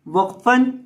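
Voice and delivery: वक़फ़न ending on a silent consonant; stopping pause form. Shown as a demonstration. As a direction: say वक़फ़न with the final sound stopped. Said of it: "वक़फ़ की हालत में लाम को साकिन करेंगे". (वक़फ़ की हालत में पढ़ना)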